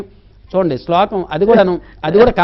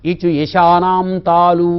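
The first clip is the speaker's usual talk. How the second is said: slow sutra recitation; much slower than usual. Shown as a demonstration. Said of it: "దవడల్లో నుండి పుట్టిన అక్షరాలు".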